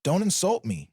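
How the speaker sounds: sharp, high interruption. A narrator's reading. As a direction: cut her off sharply. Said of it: "he interrupted sharply".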